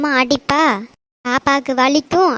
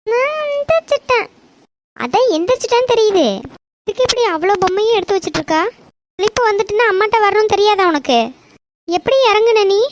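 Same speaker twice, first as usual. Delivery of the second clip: cross mother telling off, pitched up; angry scolding; 5 semitones higher than usual. Acted. Mother catches her child out of bed among the toys, angry scolding. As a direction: scold a naughty child sharply. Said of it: "நீ கோவமா பேசுற".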